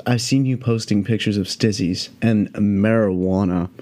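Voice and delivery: slow, drawn-out deadpan quote; deadpan disapproval. Retold or imitated. Acquaintance confronting him about his weed posts, slow deadpan. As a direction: imitate her dead-serious accusation, slowly. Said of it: "looks at me with a dead face".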